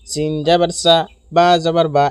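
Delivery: সা and বা kept short; no elongation. Shown as a demonstration. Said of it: "এই দুইটি অক্ষরে টান হবে না".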